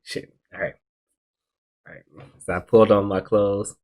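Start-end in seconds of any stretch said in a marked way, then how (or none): 0.0-2.0 hushed whisper under his breath; whispered curse. Retold or imitated. To himself at the stairs, a hushed whisper. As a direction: whisper so parents don't wake. Sneaking out, parents asleep.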